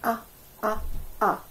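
short clear ah, like the u in umbrella; phonics sound ah. Shown as a demonstration. Teacher to nursery children, modelling the ah sound. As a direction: say ah cleanly, short and open. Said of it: "teach you a new sound".

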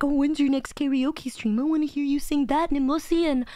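lightly mocking fan request; imitating eager fans. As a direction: mimic viewers pestering for a song. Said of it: "You guys are like".

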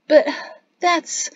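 halting, lost-for-words protest; spluttering. A narrator's reading. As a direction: splutter with a break between words, pitching up. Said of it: "Jatsi spluttered".

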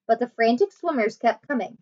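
put-on lively read-aloud voice for children; story narration. A narrator's reading. Teacher reading a chapter book to her class, animated.

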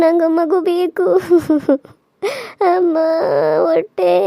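groaning in pain, begging between moans; labour pain moans.

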